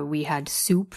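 whispered, hesitant answer. Acted. Widow answers the sergeant's question in a nervous whisper. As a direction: barely breathe the words out.

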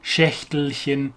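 slow, careful German Schächtelchen; diminutive form. Shown as a demonstration. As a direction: draw out Schächtelchen to its chen ending. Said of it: "into this diminutive form".

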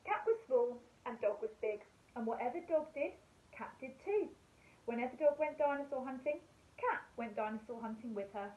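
put-on gentle storybook reading for young children; bedtime story narration. A narrator's reading. Teacher reading a bedtime story to her class, gentle storytelling. Reads a bedtime picture book.

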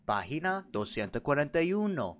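lightly voiced language-course narrator; Spanish textbook audio. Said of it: "Do an impression of my Spanish textbook?".

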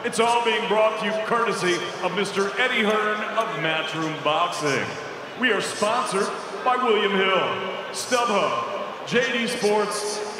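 formal ring announcer, building up. Real, not acted. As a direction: announce it to the arena.

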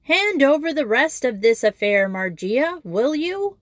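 deliberately loud classroom call; loud tones. Acted. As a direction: bellow it across the room. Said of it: "her loud tones".

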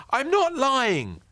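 high, loud, slow protest; cried out. Acted. Ben protesting to the neighbour, high and loud. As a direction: cry out in protest. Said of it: "cried Ben".

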